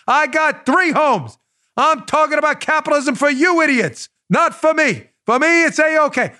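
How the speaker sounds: hammy Bernie bragging about his homes; Bernie Sanders voice. Retold or imitated. Host mocking Bernie's hypocrisy, lightly imitating Bernie. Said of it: "We haven't done that voice in a long time".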